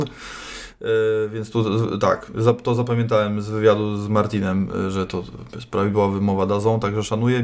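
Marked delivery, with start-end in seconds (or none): none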